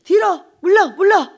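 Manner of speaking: retold sharp command to get back. Someone orders the preacher to step back, loud command.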